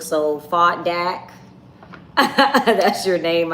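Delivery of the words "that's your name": slow, amused, laughing at the name; teasing laugh. Real, not acted. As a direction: drag it out while laughing. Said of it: "teasing a viewer's name".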